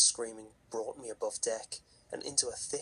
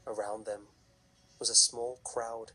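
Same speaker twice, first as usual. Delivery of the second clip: story narration. A narrator's reading. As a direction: tell it like a campfire horror story.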